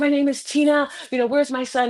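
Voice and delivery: frantic, high, hysterical panicked voice. Retelling what she demanded of the slow man at the counter, retelling hysterical panic. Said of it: "just like hysterical".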